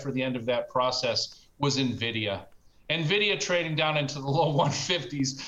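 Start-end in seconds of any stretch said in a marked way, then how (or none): 2.9-5.4 chuckling through the words; laughing while speaking. Real, not acted. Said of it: "can't say Nvidia one fifty without laughing".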